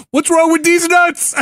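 high, drawn-out mock shout; imitating a gleeful, high-pitched taunt; triumphant punchline. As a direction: crow the punchline like a cheeky kid. Retold son's triumphant punchline stunt.

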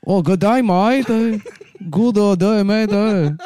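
high, squeaky Aussie mock accent; Australian Chinese accent. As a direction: play up a silly Aussie-Chinese voice. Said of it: "it's very hard to do, uh, Australian Chinese".

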